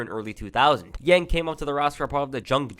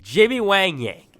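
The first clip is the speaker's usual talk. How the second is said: slow, louder and higher, like revealing a new gimmick; grand name announcement; 7 semitones higher, 6 dB louder, slower than usual. Retold or imitated. Retelling Vince unveiling the new character, drawn-out announcer reveal. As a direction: roll the name out like a ring announcer, slowly.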